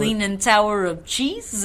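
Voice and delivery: slow, drawn-out cartoon quote; Goofy movie quote. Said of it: "that's from the Goofy movie".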